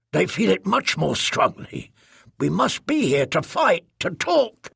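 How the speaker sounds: halting speech, pitch lifting at phrase ends; an alien woman puzzling out her conviction; earnest alien speaker. Acted. Bitter speaker telling the trader they must stay, halting and earnest.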